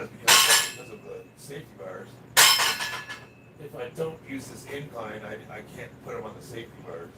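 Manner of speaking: raspy, hoarse smoker's voice; smoker's rasp. Real, not acted. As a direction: rasp from a neck injury, hoarse. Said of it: "the reason I sound like I smoke twenty packs of cigarettes a day".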